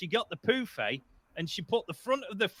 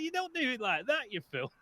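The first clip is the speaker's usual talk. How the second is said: playful chiding with a falling, softer finish; mock scolding; 4 semitones higher, 4 dB quieter than usual. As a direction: imitate an exasperated husband's telling-off. Acted husband correcting his wife.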